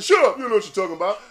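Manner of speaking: mock yell. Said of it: "And everybody said".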